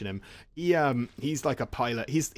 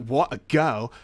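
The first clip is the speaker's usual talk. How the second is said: louder, incredulous sexist sneer; mock scornful disbelief; 5 dB louder, slower than usual. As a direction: imitate a jerk appalled by the idea. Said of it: "'cause he's a wanker".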